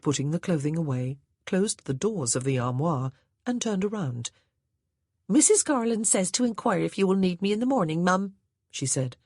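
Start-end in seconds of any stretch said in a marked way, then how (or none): 5.3-8.3 higher, louder servant voice with a country lilt; a plain-spoken old housemaid reporting orders; Hattie the maid's voice. A narrator's reading. Maid Hattie to her new mistress, higher and louder.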